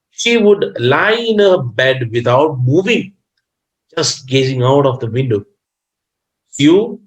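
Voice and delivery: expressive read-aloud, lifted openings falling away; story reading. Acted. Teacher reads about the sick artist, expressive read-aloud. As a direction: read it out to a class phrase by phrase.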